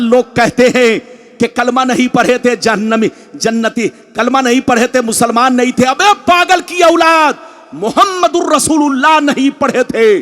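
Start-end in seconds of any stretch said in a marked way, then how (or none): 5.8-10.2 raised, scolding shout; angry shout. Acted. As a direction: lash out at the doubters. Preacher berates opponents.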